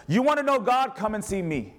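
bright personal invitation; bold invitation. Retold or imitated. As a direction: invite a coworker with confidence. Imagined words to coworkers.

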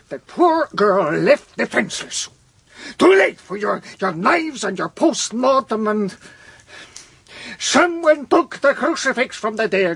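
worked up, voice pitched high; agitated shouting. Acted. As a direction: protest in distress at a terrible loss. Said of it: "I shout that".

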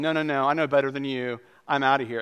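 patient brushing off the doctor with a mild huff; stubborn dismissal. Retold or imitated. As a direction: dismiss the advice with mild indignation. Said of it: "going to the doctor and going".

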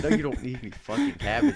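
exasperated clerk, pitched high; acted-out fed-up refusal, voice jumping up; mock-angry electronics guy; pissed off. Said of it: "this guy got really pissed".

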